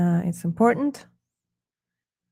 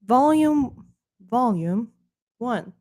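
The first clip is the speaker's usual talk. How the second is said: put-on British accent; slower than usual. Re-saying "volume one" for viewers in mock British accent. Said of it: "said so Americanly".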